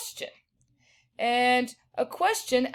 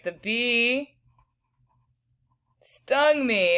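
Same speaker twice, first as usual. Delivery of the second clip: exclaiming; 3 semitones higher, much slower than usual. Shown as a demonstration. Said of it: "add a little bit more exclamation points".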